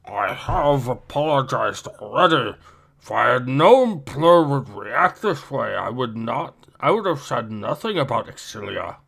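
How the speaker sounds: whispery strained alien voice; Nern voice. Acted. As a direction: start in a breathy whisper, then speak low and urgent. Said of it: "I guess I'll voice Nern".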